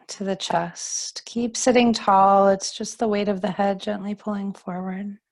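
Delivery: calm, unhurried yoga teacher voice; guided relaxation. Acted. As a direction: guide them gently into settling and breathing. Guides seated stretches.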